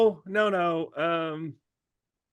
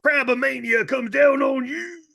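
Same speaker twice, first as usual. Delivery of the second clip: Hulk Hogan impression; 5 semitones higher than usual. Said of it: "Is that your Hulk Hogan?".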